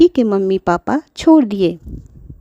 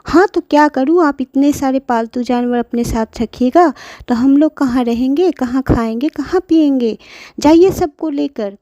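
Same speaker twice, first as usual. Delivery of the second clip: lightly voiced scolding son; 5 semitones higher than usual. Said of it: "Pinky के पापा बोले".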